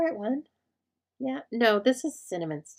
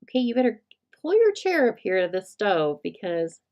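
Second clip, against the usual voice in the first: grandma's warning; 5 dB louder than usual. Retold or imitated. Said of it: "my grandma said to me".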